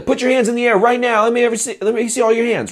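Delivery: loud, high, confident command. Shown as a demonstration. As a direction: order the whole room. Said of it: "You need to have the".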